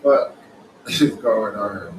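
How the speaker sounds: stunned laugh bursting into a loud fuck; shocked outburst. Retold or imitated. Reacting to the article, shocked loud outburst. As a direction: blurt it out, half laughing in disbelief. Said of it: "I was like".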